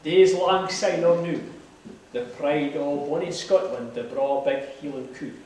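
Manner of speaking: reciting a poem in broad Scots; lilting Scots verse recitation; broad scottish accent. Acted.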